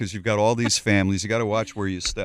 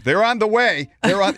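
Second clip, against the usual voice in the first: aggressive; 9 semitones higher, 4 dB louder than usual. Retold or imitated. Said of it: "It's so aggressive".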